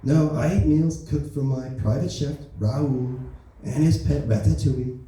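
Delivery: lightly voiced Trump, smug and boastful; a hint of Trump bragging to the peasants; Donald Trump impression. President Trump brags to the public, lightly voiced Trump. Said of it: "that's the end of my Donald Trump jokes".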